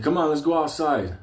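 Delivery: barked order to step outside; a hint of a tense old soldier; gruff command. Hector's order quoted.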